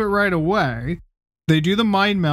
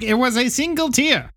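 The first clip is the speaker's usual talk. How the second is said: mock defensive Sarek; 6 semitones higher than usual. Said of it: "he's like".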